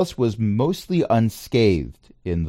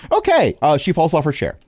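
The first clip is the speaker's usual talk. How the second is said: amused DM; 8 semitones higher than usual. Real, not acted. DM laughing at a failed roll.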